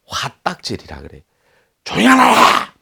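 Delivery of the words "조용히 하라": roaring furious bark, very high and loud; angry shout. Shown as a demonstration. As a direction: yell it like someone flying into a rage. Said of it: "고함을 버럭 지르는 거". (버럭 지르는 고함)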